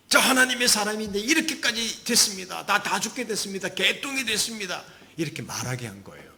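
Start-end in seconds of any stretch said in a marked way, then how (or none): 0.1-4.8 high-pitched acted lament; despairing complaint. Elijah venting everything to God, high despairing complaint. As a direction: wail out your grievance to God.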